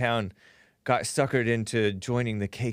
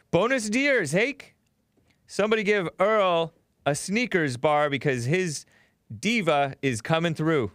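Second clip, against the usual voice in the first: mock excited greeting; 3 semitones higher than usual. Reading a viewer's super chat.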